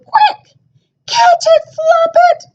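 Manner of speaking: high, loud urgent shout. A narrator's reading. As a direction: yell for Floppet to catch the chick. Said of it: "Chicken shouted".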